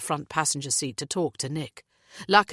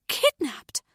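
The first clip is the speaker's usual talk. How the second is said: high gasped disbelief; shocked echo; 10 semitones higher than usual. A narrator's reading. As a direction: repeat the word in shock. Natalie gasps in shock.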